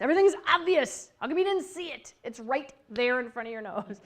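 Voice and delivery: 1 know-it-all friend. Retold or imitated. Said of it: "a very good friend who things are obvious".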